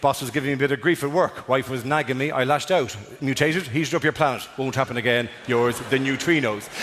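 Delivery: a hint of an apologetic ex; sheepish neutrinos. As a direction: read it like a guilty letter writer. Neutrinos' apology note voiced.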